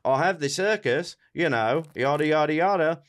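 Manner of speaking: offhand mock Cockney; Tsar Nicholas. Tsar explaining himself to the extremists, Cockney accent. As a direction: breeze through it in a put-on Cockney accent. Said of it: "he's just like".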